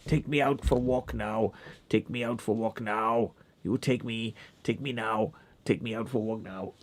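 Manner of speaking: dog demanding a walk, played lightly. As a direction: speak for the pushy dog. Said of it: "she's like".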